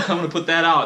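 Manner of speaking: firm retold promise, lightly hammed-up; stern declaration. Vlogger quoting his unkept promise to viewers, mildly stern. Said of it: "I said something very, like, sternly".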